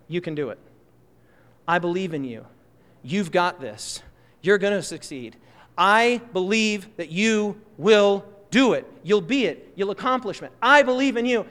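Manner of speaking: gently steady them with belief; a hint of a soothing mentor; reassuring mentor. Mentor voiced reassuring the doubter.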